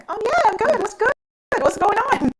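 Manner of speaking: high, bright just-woke-up voice; groggy chirpy. Retold or imitated. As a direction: squeak it, dazed but cheerful. Waking up after surgery.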